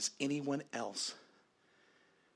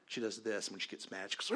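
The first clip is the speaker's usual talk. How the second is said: ordinary talk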